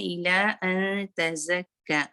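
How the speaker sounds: slow chanted recitation; measured Quran recitation. Shown as a demonstration. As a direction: recite it slowly, za buzzing. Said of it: "ज़ा में जो है air भी है".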